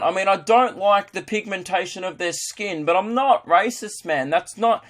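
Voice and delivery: high, drawn-out Aussie bigot; caricature Australian. Acted. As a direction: plead your case in a hammed-up Australian drawl. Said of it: "nothing more Australian than just".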